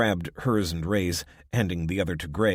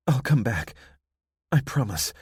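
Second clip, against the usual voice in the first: earnest promise; 6 semitones higher, 4 dB louder than usual. Acted. Abby's promise, emotional.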